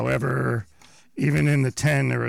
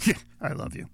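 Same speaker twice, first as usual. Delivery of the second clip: offhand; 3 dB quieter, faster than usual. Shown as a demonstration. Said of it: "nonverbal communication is a huge part".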